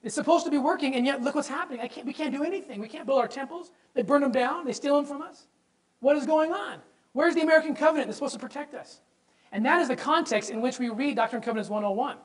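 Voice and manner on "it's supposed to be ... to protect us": pleading with God. Retold or imitated. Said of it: "he pleads with the Lord".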